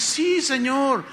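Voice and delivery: slow, high, drawn-out yes; obedient disciple. Acted. Disciple answers the Lord, slow obedient yes. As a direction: stretch out the acted reply. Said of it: "tú le dices".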